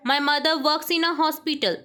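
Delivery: very slow, word by word dictation. Shown as a demonstration. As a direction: read it out slowly for the class to write. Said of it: "teacher dictates sentence". (धीमे-धीमे बोलकर लिखवाना)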